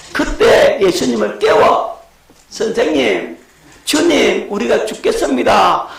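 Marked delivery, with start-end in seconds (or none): 2.5-5.9 higher, pleading cry; a drowning believer calling on God; panicked prayer. Acted. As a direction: beg the Lord for rescue. Believer crying to the Lord.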